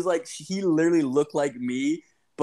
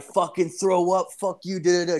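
higher-pitched mock tough talk; imitated gang talk; 5 semitones higher than usual. Kid throwing gang signs at storyteller, mock tough talk. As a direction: mimic a kid acting gangster. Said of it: "gang shit to me".

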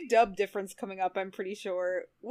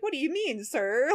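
mock sassy AI, a touch higher; lightly voiced cheeky computer lady; a hint of a disrespectful AI asking questions; 4 semitones higher than usual. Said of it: "And she's so sassy".

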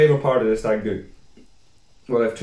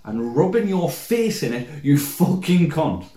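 silent menace. Retold or imitated. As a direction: threaten him with restrained fury. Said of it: "staring me dead in the eye".

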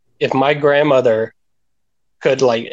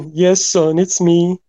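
put-on raspy mother voice, pitched up; raspy mom; 5 semitones higher, slower than usual. Mom answering her son in a bit, mock raspy voice. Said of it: "You sound raspy".

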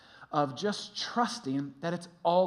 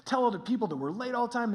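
hurried, anxious muttering to himself; acted-out nervous rush; stressed out; much faster than usual. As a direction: fret about being late, words tumbling. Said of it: "I'm downstairs stressed out".

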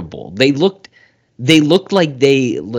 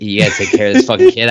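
louder, rushed exasperated demand; 2 semitones lower, 5 dB louder, faster than usual. Retold or imitated. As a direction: ramp it up, louder and faster. Bruce ordering Alfred.

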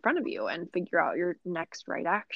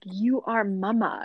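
imitating a Russian accent, drawn out slowly; slow mock-Russian quote of a numerologist; slower than usual. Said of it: "thick Russian accent".

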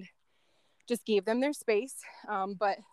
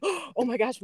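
gasped; 3 semitones higher, slower than usual. Retold or imitated. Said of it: "we all gasped".

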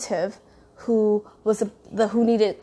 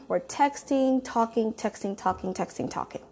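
trailing off; 7 dB quieter than usual. Retold or imitated. Texting on and on all day.

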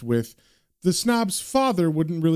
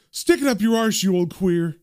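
defiant yell; 3 semitones higher than usual. Acted. Waiter yelling back at the posh customers, defiant. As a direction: hurl the insult back over your shoulder. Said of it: "Thompson yells out behind him".

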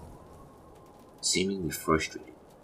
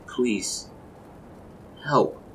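high, loud cry for help; beg, high and rising in force, on the edge of sobs; desperate sobbing plea; 8 semitones higher, 4 dB louder than usual. A narrator's reading. Wife ending her prayer with a desperate, sobbing plea. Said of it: "she started to sob desperately".

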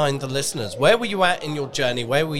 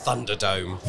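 dramatic announcer voice. Acted. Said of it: "I tried not to do that in an overly dramatic voice".

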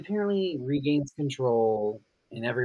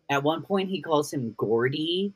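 usual speaking voice

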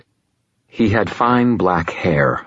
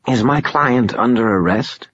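wheezy nasal voice; 6 semitones higher than usual. Acted. Lawyer Glau speaks.

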